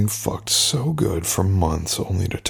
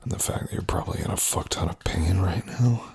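whisper; 5 dB quieter than usual. Acted. Whispered during sex scene.

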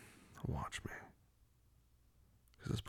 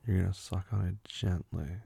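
firm command; 7 dB louder than usual. Acted. Laying down rules to partner.

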